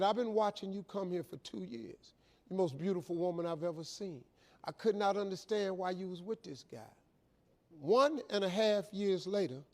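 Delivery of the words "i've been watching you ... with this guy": hushed, earnest declaration; imitating a quietly smitten suitor; soft confession. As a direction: confide it softly to one person. Maitre d' declares himself to woman.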